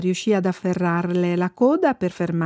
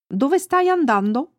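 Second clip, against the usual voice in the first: lightly voiced dog, pitched higher; friendly dog; 6 semitones higher than usual. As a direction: ask as a friendly dog, voice lifted. Il cane interroga Annika. (voce leggermente acuta da cane amichevole)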